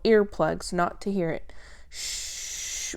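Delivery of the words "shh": soft voiceless shushing; hush. Acted. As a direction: shush someone gently. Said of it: "Billy murmured".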